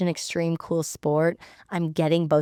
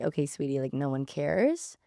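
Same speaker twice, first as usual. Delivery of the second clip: low, softer, unimpressed brush-off; dismissive guys; 4 semitones lower, 5 dB quieter than usual. Retold or imitated. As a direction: imitate guys who couldn't care less. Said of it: "all the guys were like".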